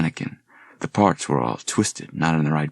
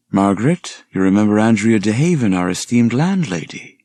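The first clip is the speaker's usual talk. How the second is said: a hint of mock formal introduction, higher and louder; exaggerated formality; 4 semitones higher, 4 dB louder than usual. Liam introducing the landlady to Margaret, mock formal. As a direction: introduce her with playful pomp. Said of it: "with a smile and exaggerated formality".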